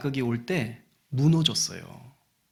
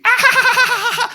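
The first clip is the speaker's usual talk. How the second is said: high, loud put-on cackle; exaggerated teasing "ha-ha-ha"; mocking laughter; 9 dB louder than usual. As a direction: jeer with a long staccato laugh. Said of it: "다 놀리는 거예요".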